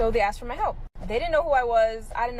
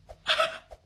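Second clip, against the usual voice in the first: breathy laugh. Real, not acted. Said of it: "I'm just now realizing".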